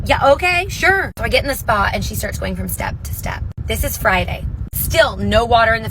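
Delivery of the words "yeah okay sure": much higher, louder surprised yes; startled agreement. Retold or imitated. Mom stunned that her daughter wants to swim, high surprised yes. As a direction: caught off guard but saying yes fast.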